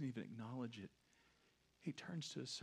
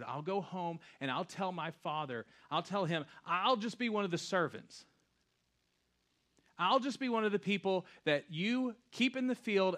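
louder, earnest prodigal son's plea; impassioned preaching; 7 semitones higher, 13 dB louder than usual. Acted. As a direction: preach the son's resolve with force. Prodigal son's speech, preached loudly.

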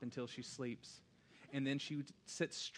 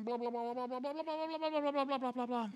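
high, rising loud blah blah babble; hammed-up child babble; mock chatter; 13 semitones higher, 6 dB louder, faster than usual. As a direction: rattle off endless kid chatter. Mimics daughter's nonstop chatter.

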